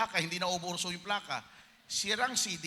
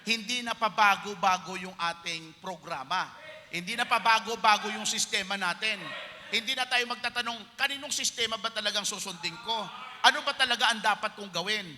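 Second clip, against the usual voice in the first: rising preaching emphasis; 3 semitones higher, 6 dB louder than usual. Acted.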